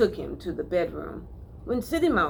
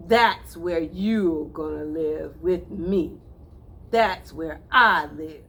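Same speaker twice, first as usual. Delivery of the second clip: boastful; 4 dB louder, slower than usual. Acted. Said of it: "he boasted".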